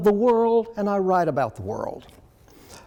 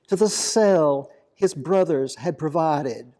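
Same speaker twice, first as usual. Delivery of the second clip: poem reading. Acted. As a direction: draw out the phrases, pausing between images. Reads own poem aloud.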